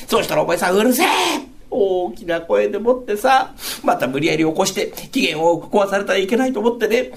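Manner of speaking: lightly voiced wife, pleading and laughing; a hint of the wife talking him round; wife convincing husband he only dreamed it, lightly voiced. Wife insists it was dream.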